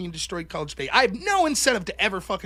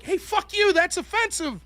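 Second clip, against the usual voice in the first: high, indignant mock snap back; mock offended retort; 9 semitones higher than usual. Opposing team answers the taunt, mock offended retort.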